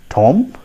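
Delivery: "Tom" with an open o, as a question; the mistaken reading "Tom", rising; wrong pronunciation. Shown as a demonstration. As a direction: ask "Tom" as a learner would misread tomb. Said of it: "that is not the correct pronunciation".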